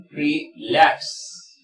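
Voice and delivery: relax split slowly, re-LAX; second-syllable stress. Shown as a demonstration. Teacher models verbs and prepositions, stress on LAX in relax. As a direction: stretch relax with the weight on LAX. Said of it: "mayor fuerza de voz en la segunda línea".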